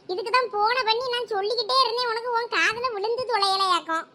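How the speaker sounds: usual speaking voice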